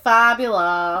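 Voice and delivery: drawn-out camp delivery; gay impression. Co-host retelling the characters' bit at the desk, gay impression. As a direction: stretch the word out in mock-camp style. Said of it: "they did a gay impression".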